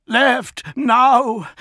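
high, loud, urgent roar. A narrator's reading. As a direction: roar it out with effort. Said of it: "roared at the effort".

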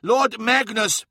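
slow, high-pitched insistence; pressing. A narrator's reading. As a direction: press him for attention. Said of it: "pressed Skarsen".

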